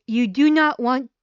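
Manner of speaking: getting carried away loudly; too loud. Real, not acted. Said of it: "oh, I'm getting too loud".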